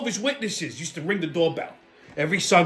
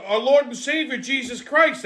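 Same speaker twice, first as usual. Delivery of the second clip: mock believer's phrase, higher; 5 semitones higher than usual. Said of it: "he goes".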